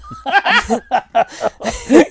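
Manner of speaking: high imitated laugh at a silly child; mocking condescending laugh. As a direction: imitate someone laughing at a naive idea. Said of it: "he gave me the silly child".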